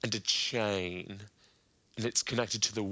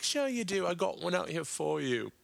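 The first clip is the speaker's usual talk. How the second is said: Russell Brand impression; 5 semitones higher than usual. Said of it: "And he was like".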